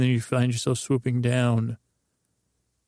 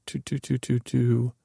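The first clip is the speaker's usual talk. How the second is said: toothless bird chuckle. Acted. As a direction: chuckle like an old man's dentures clamping. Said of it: "a bird chuckle".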